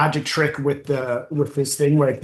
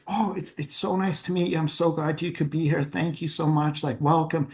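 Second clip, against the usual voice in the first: gushing welcome; 6 dB quieter than usual. Retold or imitated. Retold mayor greeting fake doctor earnestly.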